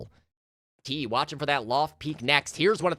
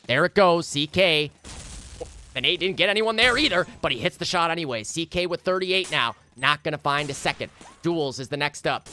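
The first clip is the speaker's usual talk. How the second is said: esports caster. Real, not acted. Live play-by-play commentary.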